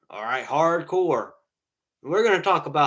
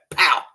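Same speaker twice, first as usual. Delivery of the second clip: loud "pow" out of nowhere; imitated gunshot; 5 dB louder than usual. Telling how his uncle got payback, imitated gunshot. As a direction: punch the shot sound.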